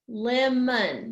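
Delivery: Lemon slowed into LEM-on; "Lemon" split evenly in two; syllable by syllable. Shown as a demonstration. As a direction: say "Lemon" in two clear beats. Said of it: "There's two syllables".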